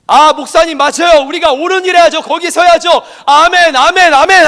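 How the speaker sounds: loud, high, eager churchgoer agreeing; eager amen. Retold or imitated. Congregant to pastor, loud eager amen.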